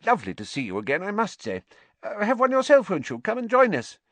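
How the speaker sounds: high, loud, effusive greeting; hearty minister. A narrator's reading. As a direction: play a jovial official welcoming an old acquaintance. Fudge greeting Madame Rosmerta.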